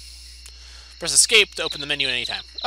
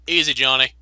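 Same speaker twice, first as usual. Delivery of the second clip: put-on British accent; 3 semitones lower than usual. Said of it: "I don't know why I'm British now".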